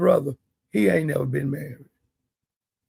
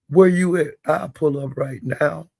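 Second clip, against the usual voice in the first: mock challenge. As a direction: bark it out like a threat on a livestream. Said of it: "Mister Houston said on the panel".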